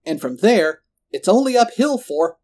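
loud, rising, pompous villain speech; pontificating villain. A narrator's reading. Roland boasting of his climb to power, pontificating. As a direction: hold forth grandly until cut off.

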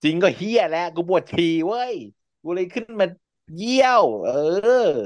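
high, flustered denial. Retold or imitated. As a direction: blurt it out, caught off guard. Flustered reply voiced in story.

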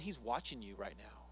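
mock sinister murmur; ominous low aside. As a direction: drop to a creepy warning. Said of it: "He does this to me every day".

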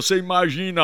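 ordinary talk

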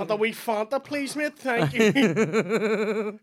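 high, sing-song mock Italian accent; exaggerated Italian-accented thanks; put-on Italian accent. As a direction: keep the hammed-up Italian accent for a polite order. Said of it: "I switch to the accent".

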